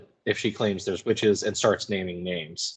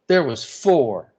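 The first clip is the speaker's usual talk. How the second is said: a dazed servant, slow and heavy; slow, trance-like first count; slow, louder, eerie first count; 4 semitones higher, 5 dB louder, slower than usual. Acted. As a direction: drop it out slowly as if in a trance. Tituba answering the count.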